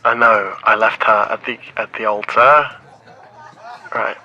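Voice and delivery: loud, blurting out each broken piece; loud confession. Acted. Man admits he left her at the altar, loud and defensive. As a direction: shout it out, defensive and guilty.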